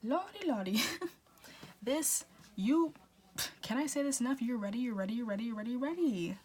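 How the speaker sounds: high, loud, giggly burst of excitement; excited squeal. Real, not acted. Tarot reader squeals to viewers, real excitement. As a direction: gush it out, overjoyed. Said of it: "I'm getting excited".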